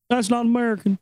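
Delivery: put-on complaining voice; obnoxious customer. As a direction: imitate an affronted douche. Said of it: "he was just a total douche".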